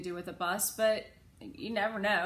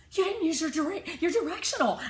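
put-on high, loud, preachy kid; know-it-all kid scolding the driver; lecturing child; 9 semitones higher, 6 dB louder than usual. A narrator's reading. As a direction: spell out the law, slowing on the last words.

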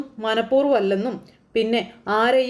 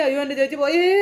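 higher, hammed-up wail rising on പോയേ; fake crying; 3 semitones higher than usual. Uncle fake-wailing that sister is gone. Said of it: "ഭയങ്കര കരච്ചിൽ".

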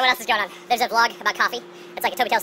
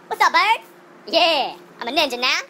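excited; 7 semitones higher, 6 dB louder, slower than usual. Real, not acted. Posing with sword.

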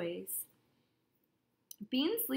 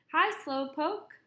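slow, louder, higher greeting across the dock; calling out; 5 semitones higher, 6 dB louder, slower than usual. A narrator's reading. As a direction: call out to the man on the boat. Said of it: "Beans calls out to a man".

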